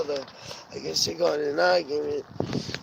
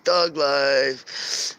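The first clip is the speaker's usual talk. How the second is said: mock gangsta tagline; YouTube thug-life meme; 3 dB louder than usual. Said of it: "what do they say on fucking YouTube".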